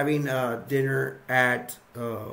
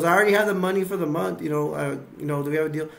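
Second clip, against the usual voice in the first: eager pitch; much faster than usual. Retold or imitated. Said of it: "And he goes".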